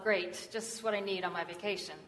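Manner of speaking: understated weary grumble; a touch of dry, resigned annoyance; groaning inwardly. Retold or imitated. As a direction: grumble it softly to yourself. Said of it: "Craddock groaned and thought to himself".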